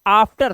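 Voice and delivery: "After" with a broad aa, आफ्टर; "After" begun with the vowel of father; long आ in after. Shown as a demonstration. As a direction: model "After" clearly on an open aa. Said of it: "क्या पढ़ते हैं?".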